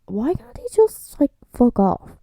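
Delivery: breathy whispered exasperation; exasperated whisper. Real, not acted. Viewer whispering her annoyance at the brother. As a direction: hiss it out, fed up with him.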